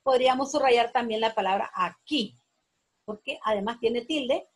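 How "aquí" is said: "aquí" said as a-KÍ; teacher stressing the KÍ in "aquí"; stress on final syllable. Shown as a demonstration. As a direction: land on the last syllable of "aquí". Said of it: "ki es la sílaba tónica".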